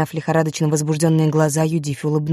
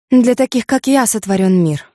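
higher and louder, exultant and haughty; triumphant pride; 5 semitones higher, 3 dB louder than usual. A narrator's reading. Judith boasting to herself, exultant and haughty. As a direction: crow it like a queen over the world. Proud beauty raises arms triumphantly.

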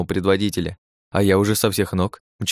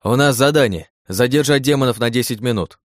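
louder answer called across the field; shouted reply; 4 semitones higher, 3 dB louder than usual. Acted. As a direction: call it back over the noise. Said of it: "крикнул я в ответ".

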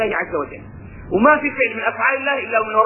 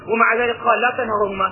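ordinary delivery

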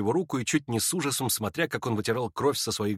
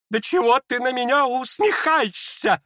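higher strained cry; unnatural outcry; 12 semitones higher, 4 dB louder, slower than usual. Acted. Lizaveta snaps at the smirking Ippolit, strained outcry. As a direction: shriek it out unnaturally. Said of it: "как-то неестественно вскрикнула она".

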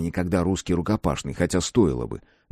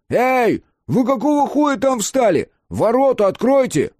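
much higher, louder yell out the window; shouting; 5 dB louder than usual. A narrator's reading. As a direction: bellow it at the gate guards. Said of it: "закричал".

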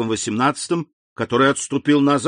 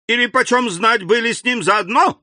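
suspicious; 11 semitones higher, 4 dB louder than usual. Acted. King suspects treason.

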